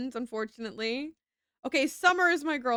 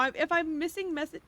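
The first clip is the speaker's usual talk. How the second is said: higher, whiny tone; 5 semitones higher than usual. Pretend. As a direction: whine the line a little. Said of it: "I'm gonna turn the whiny voice off".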